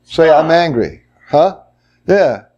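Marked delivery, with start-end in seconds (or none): 0.3-1.0 mild demonstration of anger, slightly raised pitch; angry voice. Shown as a demonstration. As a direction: show the group a touch of anger. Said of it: "say something in anger".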